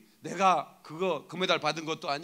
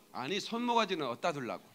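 normal talking voice

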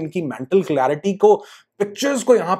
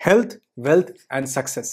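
slow, deliberate chant of the three words; calm slow mantra; slow affirmation; 4 semitones lower, much slower than usual. Shown as a demonstration. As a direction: savour each word slowly. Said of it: "सिर्फ ये बोलो".

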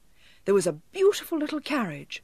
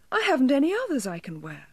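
higher, fast, urgent plea; a lightly voiced desperate girl; pleading; 6 semitones higher, faster than usual. A narrator's reading. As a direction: rush it out in protest. Child pleading.

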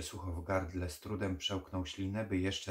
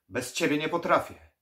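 much higher, loud desperate plea; frantic pleading; 9 semitones higher, 12 dB louder than usual. Acted. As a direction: beg frantically, faking agreement. Necromancer's false plea.

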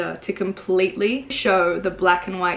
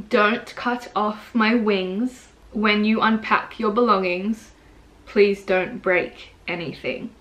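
slow recital, stretching each line; poem reading; slower than usual. Acted. Poet returns to the poem for viewers, slow recital. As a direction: read the verse slowly and deliberately.

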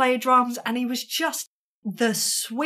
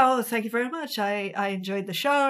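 composed, lightly voiced gracious reply; a hint of the smooth gentleman; suave, sweet. Manager compliments the musician, mildly suave. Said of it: "And he's so suave".

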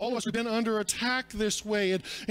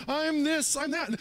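bragging; 6 semitones higher than usual. Retold or imitated. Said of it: "They're always bragging".

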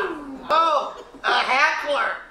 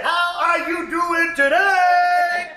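stand-up shout; 4 semitones higher, slower than usual. Acted. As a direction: work the crowd, slow. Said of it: "I said".

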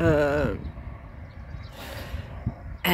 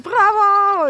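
high, loud mock "Bravo!" from the staff; imitating cheering shout; 13 semitones higher, 7 dB louder than usual. Café women cheering the walker as she leaves, high excited shout. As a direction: call it out like a cheering crowd. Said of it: "They're going, like".

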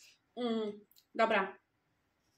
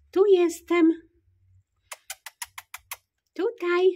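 high, louder sing-song voice for little kittens; cooing pet talk; 7 semitones higher, 8 dB louder than usual. Real, not acted. Woman greeting her kittens in their nursery, high cooing pet talk. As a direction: coo at the kittens like tiny babies.

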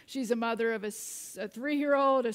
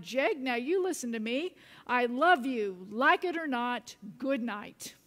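firm, louder retold mother's outburst; frustrated reply; 3 dB louder than usual. Tired mother to her protesting son, firmly exasperated. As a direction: lay down the law, punching the middle. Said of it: "out of frustration, out of fatigue".

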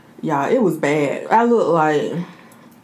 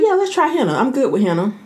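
high, eager yes; chirpy go-along voice; eager agreement; 5 semitones higher than usual. Retold or imitated. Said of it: "I'm like".

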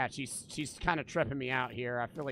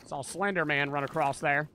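put-on Southern accent, louder; 5 dB louder than usual. Player imagining himself as a badass Southern guy, Southern accent. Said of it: "how bad is my Southern accent".

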